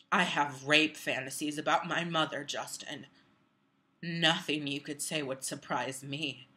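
low, unsettling confession, softening toward the end; a hint of a creep confiding; creepy man. Acting the creepy older writer.

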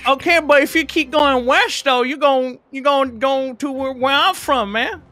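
put-on a lightly done eastern warrior accent; Asian accent. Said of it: "every accent just glossed over".

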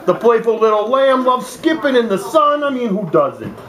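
put-on Brooklyn accent for a children's book; loose, hammed-up New York accent. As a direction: read the animal rhymes in mock New York. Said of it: "Supposed to be Brooklyn or New York?".

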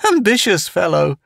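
high giggly character voice; giggle, then quip in a high voice; giggling. A narrator's reading. Town mocking Morgan's miniature Earth, giggling high. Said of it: "Town giggled".

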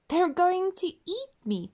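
high, worried little voice; fearful thought. Acted. Goldilocks fears the bears, high worried voice. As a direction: fret to yourself about being eaten. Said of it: "thought Goldilocks".

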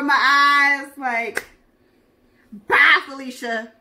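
hammed-up breakup yell; mock yell. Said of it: "he was like".

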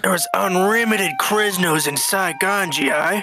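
put-on Vietnamese accent. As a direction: play a Viet Cong officer with a Vietnamese accent.

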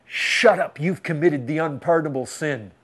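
lightly voiced accusing devil. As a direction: imitate a silencing accuser. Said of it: "The devil says".

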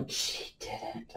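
gasp, then breathy whispered disbelief; scandalized grandmother, whispered; imitated shocked gasp. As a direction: gasp and whisper in mock horror. Mother's shocked reaction, acted out.

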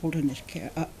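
talking around pipe stem; tags: pipe in mouth. Real, not acted. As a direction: lips clamped on pipe. Seen 0: Pipe stem clenched between lips throughout; she speaks around it while lighting.

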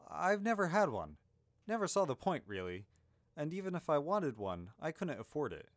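a touch of breezy dismissal; offhand hero. Acted. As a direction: shrug off the question. Narrator voices offhand young hero.

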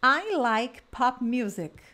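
slow, clear drill sentence; slow drill model. Shown as a demonstration. Teacher leading a repeat-after-me drill, slow. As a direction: model it slowly so they can repeat. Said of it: "vamos repetir essas frases".

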